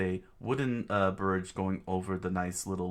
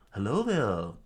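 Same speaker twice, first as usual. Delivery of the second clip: Obi-Wan impression; 4 dB louder than usual. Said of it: "I'm Obi-Wan Kenobi".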